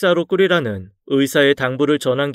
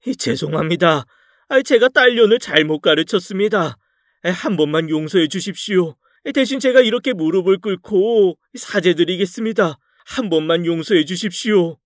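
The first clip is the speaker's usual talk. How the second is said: pleading apology; 4 semitones higher than usual. Acted. Father-in-law kneels begging forgiveness.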